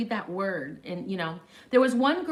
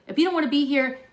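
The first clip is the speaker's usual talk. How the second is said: raised, loud warning; teacher throwing down an ultimatum; stern teacher; 7 semitones higher, 8 dB louder, faster than usual. Retold or imitated. Teacher warning a rebellious student in class, stern. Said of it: "when he was like".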